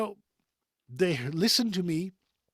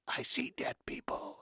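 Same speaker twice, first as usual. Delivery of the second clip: eerie hushed whisper; whispered film quote; 10 semitones higher, 7 dB quieter than usual. Retold or imitated. Voice actor quoting a film's famous line, whispered. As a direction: whisper it like a haunted confession.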